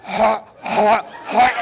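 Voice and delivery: retching dog noises; imitated dog hacking. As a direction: hack like a dog coughing something up. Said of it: "our dog goes".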